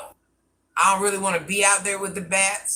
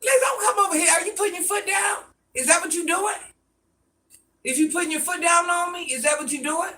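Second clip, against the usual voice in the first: shouting at Liz; 9 semitones higher, faster than usual. Real, not acted. Confronting Liz over the phone.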